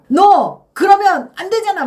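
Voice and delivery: loud, high scolding shout; angry yelling. Acted. Teacher acts out how not to confront someone, angry yelling. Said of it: "막 그럼 소리를 막 치면서".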